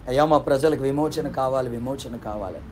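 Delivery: low, softening prayer, fading away; understated imitation of a weeping plea; tearful plea. Miriam pleading to God for her people, understated tearful plea. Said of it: "Miriam ఎప్పటి నుంచో ఏడుస్తుంది".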